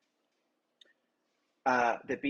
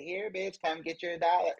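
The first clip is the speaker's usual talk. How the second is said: higher, taunting voice; mocking higher taunt; 5 semitones higher than usual. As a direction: dangle it like bait. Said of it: "dangle a dollar above my head and say".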